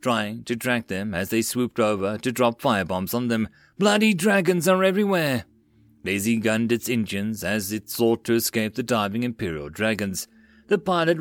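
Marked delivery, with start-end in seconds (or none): 3.8-5.5 higher-pitched cursing cry; exasperated yell. A narrator's reading. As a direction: curse the dragons mid-battle. Gunner cursing amid dragon attack.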